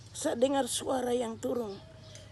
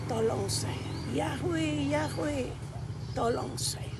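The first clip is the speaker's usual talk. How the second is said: retold plea; 4 semitones higher, slower than usual. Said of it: "lalu saya panggil".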